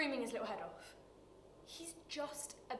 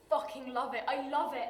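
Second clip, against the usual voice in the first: louder, emphatic burst of passion; fervent; 6 dB louder than usual. Acted. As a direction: hit LOVE hard both times. Character declares passion for gardening.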